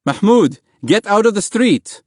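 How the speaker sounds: high, loud fatherly shout; urgent call. A narrator's reading. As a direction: call your child out of danger. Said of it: "his father called".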